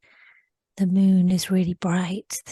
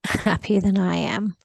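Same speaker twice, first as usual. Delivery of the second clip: laughing; 4 dB louder than usual. Real, not acted. Woman in trance laughing about her happy companion. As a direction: laugh lightly as you say it.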